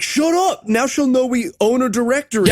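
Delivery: high, exasperated shushing of a partner; comic panicked telling-off; mock scolding. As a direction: scold an accomplice who gave it away. Acts kidnapper scolding his partner.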